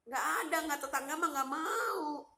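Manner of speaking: high-pitched, plaintive insistence; exasperated denial. Real, not acted. Insisting neighbours will not help, exasperated high denial.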